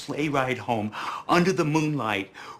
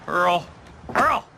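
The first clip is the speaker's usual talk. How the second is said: louder, higher call for attention; 5 semitones higher, 5 dB louder than usual. Acted. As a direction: call his name sharply, twice. Calling to get Earl's attention.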